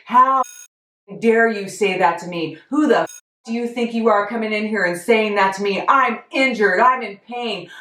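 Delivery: loud, high imitation of a furious rant; mock furious tirade; retold angry screaming. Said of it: "starts screaming at me".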